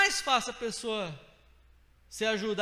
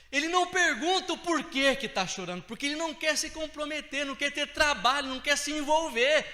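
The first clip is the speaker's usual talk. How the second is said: loud and higher, words hammered; fervent preaching; 7 semitones higher, 6 dB louder than usual. Real, not acted. Pastor rebuking the uncaring, loud high preaching. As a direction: press each phrase like a sermon peak.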